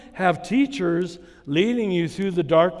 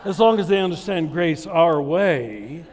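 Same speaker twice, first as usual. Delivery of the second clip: laughing. Real, not acted. Mocking Lutherans' view, laughing.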